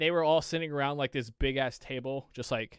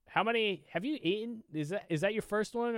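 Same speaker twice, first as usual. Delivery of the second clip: higher-pitched, concerned questioning; imitating concern; 6 semitones higher, 4 dB quieter than usual. Buddy's friend asks about the cookies, concerned. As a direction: retell it as a worried check. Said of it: "a face of concern".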